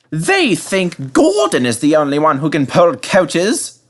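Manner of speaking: a proud engine vowing; slow, defiant self-promise; determined James. A narrator's reading. James mutters jealous complaint.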